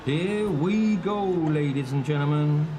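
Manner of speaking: slow, grand announcer voice; hammed-up announcer. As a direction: announce the race start with drama. Announces race start.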